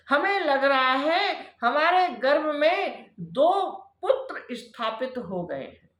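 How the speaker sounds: lightly voiced pleading wife, pitch lifted in waves; pleading Diti. Wife confessing to her sage husband, anxious pleading.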